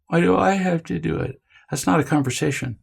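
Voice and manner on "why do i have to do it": put-on whiny child. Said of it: "the whining".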